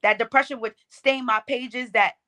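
rhythmic spoken-word delivery; lifted, cadenced poetry voice; poem recitation. Shown as a demonstration. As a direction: perform it as verse to an audience. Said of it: "that poem that you're referencing".

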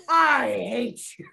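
slow whispered mock hatred; mock hateful whisper. Guest retelling road rage at another driver, in a slow whisper. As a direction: hiss it under your breath, playfully. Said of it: "I got so angry".

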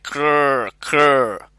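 a short rasping raven's croak twice. A narrator's reading. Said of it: "made a sound like".

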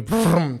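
trilled brrr of a chill; quick rolled-lip shiver noise; imitated shiver. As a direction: make the sound of a sudden shudder. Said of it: "un pinche escalofrío".

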